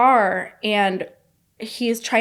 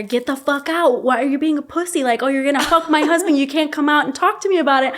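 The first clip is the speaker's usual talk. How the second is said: fast, raised, furious tirade at the other woman; retold yelling; 4 semitones higher, 4 dB louder than usual. Wife yelling at husband's mistress through her window, retold fast and angry. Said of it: "I'm, like, yelling at her".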